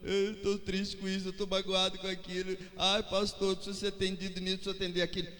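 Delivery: mock-plead like a sulking member; mock whining churchgoer. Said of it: "você não vai ficar chorando pro pastor".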